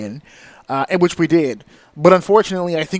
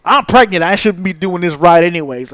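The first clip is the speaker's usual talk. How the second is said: retold yell; 7 dB louder than usual. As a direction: belt it out like a cornered worker. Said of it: "she just yells out loud".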